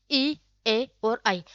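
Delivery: ई, ए और आई drawn out slowly, lips barely moving; each vowel ई, ए, आई held long for the class; slow vowel demo. Shown as a demonstration. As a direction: spell out ई, ए और आई slowly with lips almost still. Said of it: "इसके होंठ हिल भी रहे कि नहीं".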